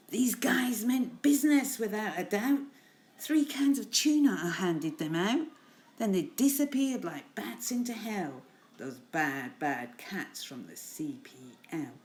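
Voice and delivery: dramatic rhyming narration, loud start, dropping at the close; poem reading. Acted. Teacher finishing a gangster cat poem, dramatic reading. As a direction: build the punchline, then let it sink.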